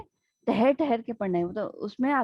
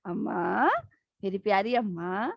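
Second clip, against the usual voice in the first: sweet-talking; 3 semitones lower, slower than usual. Retold or imitated. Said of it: "فل آن مکھن بازی".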